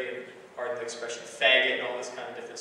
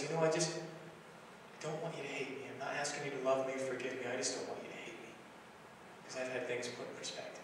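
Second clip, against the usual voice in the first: soft, near-whispered retold plea, fading quiet; father to estranged daughter, begging quietly through tears; tearful plea; 7 dB quieter than usual. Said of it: "and he's crying".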